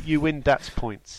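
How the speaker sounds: "dats" said with a d for "that's"; "dats points" with a d. Real, not acted. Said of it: "Dats points".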